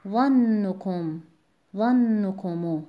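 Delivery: drawn-out practice of ظنکم; slow stress practice. Shown as a demonstration. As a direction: drill ظنکم syllable by syllable. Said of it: "با سکون بخونید".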